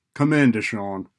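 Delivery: loud, curt snap; snapped order. A narrator's reading. Howard ordering the student into his office, snapped. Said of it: "he snapped".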